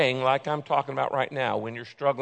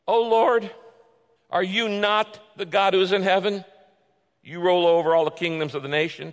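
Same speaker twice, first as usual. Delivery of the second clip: fervent king's prayer; 2 semitones higher than usual. Acted. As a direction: pray like a king facing armies. Voices king Jehoshaphat's prayer.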